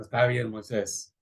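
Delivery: a weary, sighing give-in; sighing resignation. Retold or imitated. God sighing as he gives in to Moses. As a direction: let it out on a tired breath. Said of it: "Dios sí respiró".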